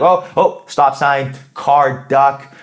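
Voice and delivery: playful pointing out stop sign, car, duck; mock excited noticing. Shown as a demonstration. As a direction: snap out of it by naming things brightly. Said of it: "Be like".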